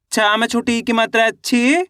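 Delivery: teacher's sounding-out, "ची" held long and rising; अक्षर-दर-अक्षर उच्चारण. Shown as a demonstration. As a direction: spell out the vowel sign, lifting and stretching the final "ची". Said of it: "एक अक्षर का उच्चारण ही तो करना". (आख़िरी "ची" को लंबा खींचकर ऊपर उठाना)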